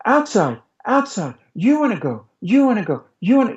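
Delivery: put-on toddlerese to a child. Shown as a demonstration. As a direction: mirror the child in simple repeats. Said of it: "The first step is to do something like".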